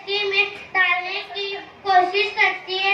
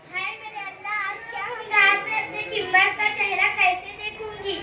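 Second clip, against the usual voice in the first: softer, half-hearted wail to God; lamenting; 4 dB quieter than usual. Acted. Nasibun despairs over her stuck son, a soft lament. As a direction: lament under the breath, chest beating. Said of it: "सीने पर हाथ मारती हुई".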